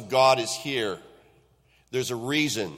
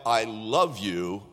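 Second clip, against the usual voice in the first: heartfelt; 3 semitones lower, slower than usual. Retold or imitated. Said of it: "it comes from the very depths of my heart".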